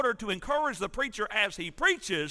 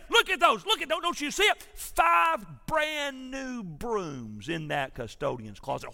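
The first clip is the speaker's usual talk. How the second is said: fuming church member. Retold or imitated. Irate church member yelling at the pastor, mock outrage. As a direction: rant at the preacher like an outraged penny-pincher. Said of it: "mad, fuming church member".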